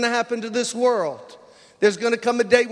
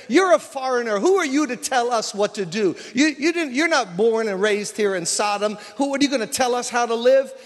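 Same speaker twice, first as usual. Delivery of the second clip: raised-pitch, imitated mob protest; acted indignant challenge; 3 semitones higher than usual. Men of Sodom pressing in on Lot, mock indignation. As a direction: throw it at him as an affronted crowd.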